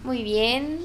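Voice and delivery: just had wisdom teeth out; talking after tooth extraction. Real, not acted. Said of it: "te habían quitado las muelas del juicio".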